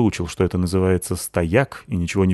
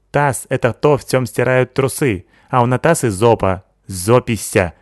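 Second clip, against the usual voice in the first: put-on higher, lisping foreign girl voice, excited; Sykil's accented voice; 4 semitones higher, 4 dB louder than usual. Sykil praising Natasha, lisping accented girl voice. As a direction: voice the Asian girl, lisping s as t-sounds.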